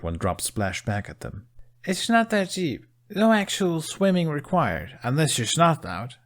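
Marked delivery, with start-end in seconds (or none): 1.8-6.1 encouraging. A narrator's reading. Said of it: "Astrid encouraged".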